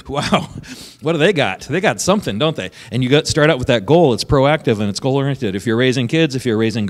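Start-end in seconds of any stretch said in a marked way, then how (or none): 0.1-2.7 higher, wondering voice of impressed people; impressed onlookers. Retold or imitated. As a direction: marvel at the kids, lightly acted. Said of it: "and people go".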